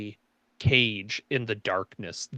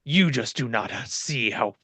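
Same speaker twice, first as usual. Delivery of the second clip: louder, indignant fallen king; angry king voice; 5 dB louder than usual. Acted. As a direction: rage at their decline. GM voicing the king.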